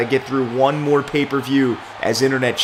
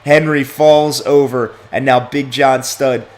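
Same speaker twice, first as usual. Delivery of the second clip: excited play-by-play; 3 semitones higher, 6 dB louder than usual. Acted. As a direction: sell the knockout blow to the crowd. Calling the big knockout and bear hug.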